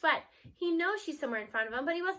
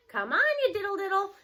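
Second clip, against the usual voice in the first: loud teasing call from afar; grandma hollering teasingly; 6 semitones higher, 6 dB louder than usual. Acted. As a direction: call through the trees, playful. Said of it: "G-Ma calls from wherever she is".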